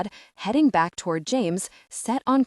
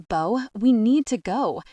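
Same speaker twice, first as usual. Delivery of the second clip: loud, higher urgent command; barking; 4 semitones higher, 5 dB louder than usual. Acted. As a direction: bark the order, no argument. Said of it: "James barks".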